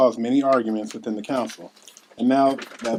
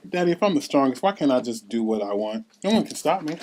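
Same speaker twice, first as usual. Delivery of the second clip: put-on child's voice; 2 semitones higher than usual. Young Liv talks to her dad.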